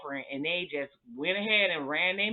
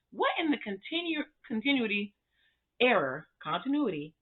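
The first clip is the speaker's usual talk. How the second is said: tongue-tied outrage; 5 semitones higher than usual. Real, not acted. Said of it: "let me get my words together".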